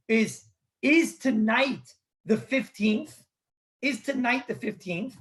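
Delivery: deliberate question, "fifteenth" rising at the end; asking intonation. Acted. One man asking another the night's count, "fifteenth" rising as a question. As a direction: ask it carefully, lifting "fifteenth" as a query. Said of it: "He's asking a question".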